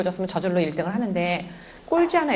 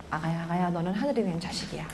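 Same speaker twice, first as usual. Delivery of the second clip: put-on softer, hushed words to a baby; tender blessing to baby; 7 dB quieter than usual. Shown as a demonstration. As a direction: croon it softly over the cradle. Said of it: "우리 아기한테 말하세요".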